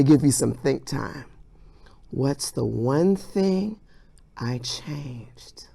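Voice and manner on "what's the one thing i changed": whispered question. Acted. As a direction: whisper like a secret.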